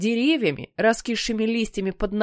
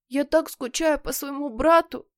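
mock wail; 6 semitones higher than usual. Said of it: "завоет Питер".

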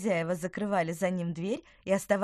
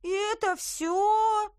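disappointed; 7 dB louder, slower than usual. Acted. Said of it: "Тыквер казался разочарованным".

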